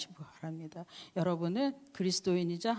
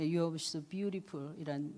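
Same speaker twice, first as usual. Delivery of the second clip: slow teaching gloss; 3 semitones lower, 3 dB quieter, much slower than usual. Shown as a demonstration. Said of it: "새로운 언어를 하나 가르쳐 드렸어요".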